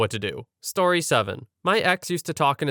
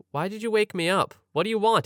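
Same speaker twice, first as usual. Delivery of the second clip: higher-pitched mock complaint; annoyed; 6 semitones higher than usual. Woken girlfriend complains to partner, annoyed. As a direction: protest at being woken, pitched up.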